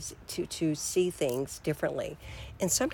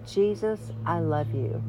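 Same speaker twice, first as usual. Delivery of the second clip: prayer; slower than usual. Shown as a demonstration. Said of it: "Say it with me".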